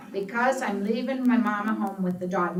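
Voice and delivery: laughing. Real, not acted. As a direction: laugh it out at yourself. Laughing at own confession.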